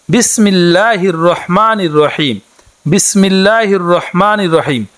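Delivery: slow, measured Arabic recitation, each word clear; careful recitation. Shown as a demonstration. Teacher showing women the prayer words, slow careful recitation. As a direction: recite it slowly so learners can copy. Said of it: "বিসমিল্লাহটি এভাবে".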